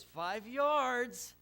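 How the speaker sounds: put-on high, loud little-boy call; kid calling a penalty. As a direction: shout it like a proud five-year-old ref.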